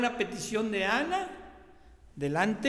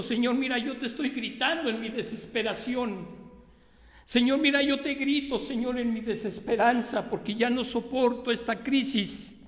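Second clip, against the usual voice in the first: higher, pleading cry to God; desperate prayer; 6 semitones higher than usual. Acted. Pastor voicing a desperate believer crying out to God, pleading. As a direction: voice a believer crying out in despair, pitched up. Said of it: "¿Qué queremos decirle a Dios con esto?".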